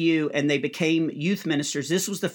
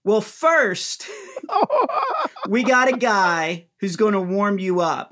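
mock emcee; 4 semitones higher than usual. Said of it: "And they were like".

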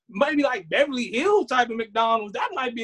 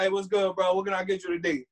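lower, laid-back street-style greeting; imitating gangster cashier; 4 semitones lower, 5 dB quieter than usual. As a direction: play a cool drive-through worker. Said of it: "they be like".

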